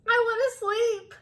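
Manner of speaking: high, loud mouse pleading; loud, high-pitched begging; shouted plea. A narrator's reading. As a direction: wail it loudly, desperate for sleep. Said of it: "shouted the mouse".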